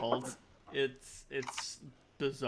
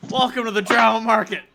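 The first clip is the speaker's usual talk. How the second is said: announcer welcome; 7 semitones higher, 12 dB louder, faster than usual. Acted. GM announcing market, loud.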